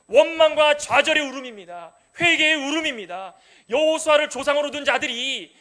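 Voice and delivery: loud, slow, fervent sermon delivery; a pastor crying out over the people's weeping; impassioned preaching. Real, not acted. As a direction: preach it with rising fervour. Preaching at full force.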